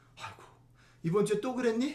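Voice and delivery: gentle, comforting, encouraging tone. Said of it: "어떻게 읽어야 되냐면 이런 거지".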